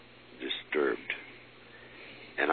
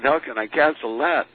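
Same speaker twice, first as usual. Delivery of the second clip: much higher, louder frightened plea; hammed-up fear of the spirits getting in; retold fear; 11 semitones higher, 7 dB louder than usual. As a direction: plead as if scared stiff. Anxious follow-up question.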